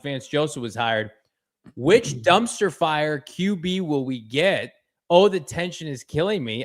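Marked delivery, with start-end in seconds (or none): 1.7-6.6 slow, drawn-out mock suspense; sarcastic. Host reading a viewer's jab aloud on stream, sarcastic. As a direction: read it out with heavy sarcasm. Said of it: "I sense a little bit of sarcasm".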